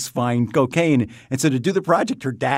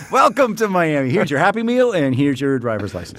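mock cheery clerk; 3 semitones higher than usual. The speaker mocks a Miami clerk handing out licenses, in a mock cheery voice. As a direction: play a cheerful counter clerk, lightly.

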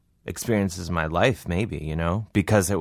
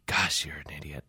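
low muttered whisper of contempt; whispered scorn; 4 semitones lower, 9 dB quieter than usual. Retold or imitated. Guards silently judging the comedian, low scornful whisper. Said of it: "looking at me like".

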